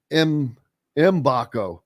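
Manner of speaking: "Mbako" as em-BAH-ko, no g; silent-g pronunciation. Shown as a demonstration. Host corrects co-host on a surname, "Mbako" with silent g. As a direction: sound out the M, then "Mbako" without any g. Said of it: "I've always heard and pronounced it".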